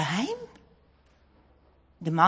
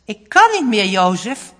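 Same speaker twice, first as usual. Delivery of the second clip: pleading exhausted woman; 9 dB louder than usual. A narrator's reading. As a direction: beg Jozef, at the end of her strength. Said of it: "zegt ze". (wanhopig smekend, luider)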